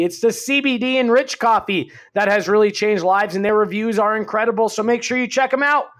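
upbeat sponsor read. Acted. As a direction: sell it like a podcast ad. Host reads sponsor ad.

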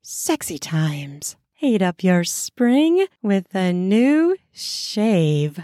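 slow, deliberate promo read; sponsor ad read. Acted. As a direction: sell the product slowly, leaning on each word.

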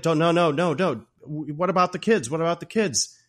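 high, loud mock panic; freaking out. Jack begging wife who pulls a gun, freaking out. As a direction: plead in a hurry, imitating a panicked man. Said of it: "then Jack's freaking out".

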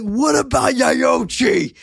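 high, slow mock yelling; hammed-up pleading. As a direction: whine the question up high. Voicing the yelling man.

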